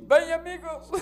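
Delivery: high-pitched hammed-up broadcast hello; TV announcer catchphrase. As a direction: parody a television sportscaster's opening. Sports announcer catchphrase parody.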